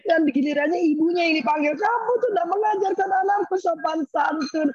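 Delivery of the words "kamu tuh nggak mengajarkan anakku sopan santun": scolding grandmother. Retold or imitated.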